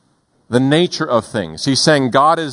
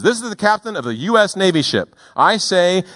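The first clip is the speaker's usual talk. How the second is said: imitating a commanding captain, higher, slowing on the order; navy captain; 8 semitones higher than usual. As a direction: play the captain giving a firm order over the radio. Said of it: "The U S Navy ship says".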